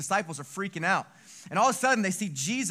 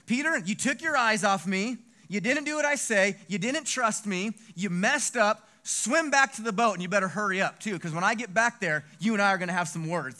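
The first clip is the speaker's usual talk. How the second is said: raised voice, telling someone off; mock scolding; 3 semitones higher, 5 dB louder than usual. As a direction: play an exasperated, loud reprimand. Imagined Jesus scolding Peter.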